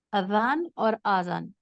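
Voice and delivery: اذان with a short first a, then آذان with a long drawn first aa; short and long vowel. Shown as a demonstration. Teacher contrasts short اذان with long آذان for students. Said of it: "with مد اور without مد".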